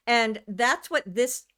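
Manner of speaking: something in the mouth; talking around something in mouth; mouth full. Real, not acted. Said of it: "sorry, something in my mouth".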